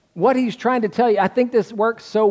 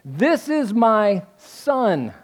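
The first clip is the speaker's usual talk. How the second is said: mild voice from heaven; 3 semitones higher, much slower than usual. Retold or imitated. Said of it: "this is what the voice says".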